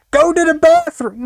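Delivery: high loud yell, to the bathroom; yelling guardian. Retold or imitated. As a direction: shout it like an angry guardian. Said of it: "It was like".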